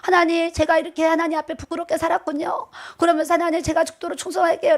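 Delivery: tearful prayer. Retold or imitated. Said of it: "막 울면서".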